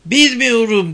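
high, loud frantic cry; shouting. A narrator's reading. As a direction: cry it out in panic. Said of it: "diye bağırdı Ayda".

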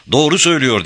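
high-pitched narrated shout; shouted warning. A narrator's reading. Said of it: "diye bağırdı".

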